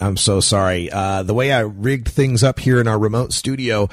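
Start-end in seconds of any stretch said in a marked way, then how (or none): none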